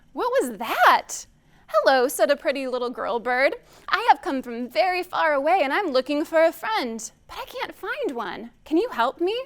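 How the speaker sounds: put-on animated, measured reading to children; storytime reading. A narrator's reading. Reader telling children about a bird seeking friends, animated storytime. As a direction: read it like a lively picture-book storytime. Reads picture book aloud to children.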